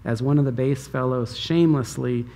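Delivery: mocking, scornful read of Michal's words; dripping sarcasm. Michal ridiculing David for dancing, dripping with sarcasm. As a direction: sneer the praise so it means the opposite. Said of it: "it's just dripping with sarcasm".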